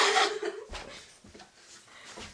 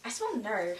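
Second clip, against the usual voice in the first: put-on low, sneering mean-girl line; 11 semitones lower, 11 dB quieter than usual. Mean girl sneering at the nerd in the skit. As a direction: look down your nose and sneer it.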